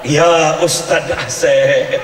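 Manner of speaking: very slow, dreamy drawn-out calling with a laugh; mock sleep-talking. Wife sleep-talking the preacher's name, hammed-up swoon. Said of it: "Ngigonya begini".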